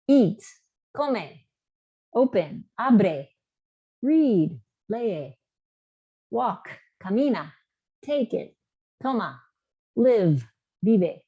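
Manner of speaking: teacher modelling Spanish commands; pitch rises on commands. Shown as a demonstration. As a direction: model each command crisply. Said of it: "I'd say canta".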